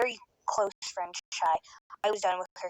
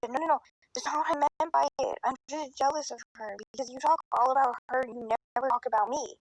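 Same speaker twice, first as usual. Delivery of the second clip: higher, pleading friend imitation; imitating near tears; 4 semitones higher than usual. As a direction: plead like a friend about to cry. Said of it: "like she was about to cry".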